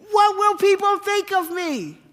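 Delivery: hammed-up exasperated wife voice; mock fussy wife. Wife frets about appearances.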